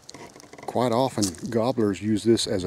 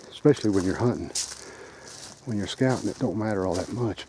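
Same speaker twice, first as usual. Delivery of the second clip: out of breath while climbing; puffing between words after the hill; gasping for air; 4 dB quieter than usual. Real, not acted. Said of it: "sorry, I'm a little out of breath".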